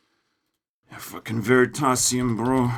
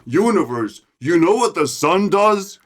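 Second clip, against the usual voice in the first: mocking a nerd; 3 semitones higher than usual. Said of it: "this is how we're gonna start a conversation".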